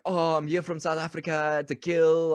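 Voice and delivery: mock South African accent, lightly put on; a cheesy movie South African villain accent, only hinted; bad South African accent. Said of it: "Such a bad accent, too".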